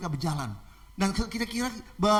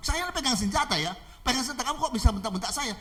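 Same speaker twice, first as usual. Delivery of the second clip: high indignant protest; acted disbelief and outrage; angry robber; 6 semitones higher than usual. Armed robber protesting at being snapped at, angry. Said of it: "marah-marah, bentak".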